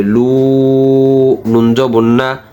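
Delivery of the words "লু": লু with rounded lips, held long. Shown as a demonstration. Teacher shows the waw sound, long rounded লু. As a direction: round the mouth and draw out লু. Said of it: "ওয়ার জন্য মুখ গোল হবে".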